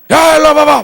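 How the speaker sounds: very high, loud imitated yell; rude summons. Passenger calling the attendant over, rude mock yell. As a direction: shout it like a demanding passenger.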